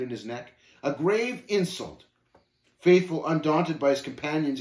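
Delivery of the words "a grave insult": slow, higher-pitched indignation; deeply affronted, weighty emphasis; outraged. Acted. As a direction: draw out the offence. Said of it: "exploded talkative, the veins beginning to protrude".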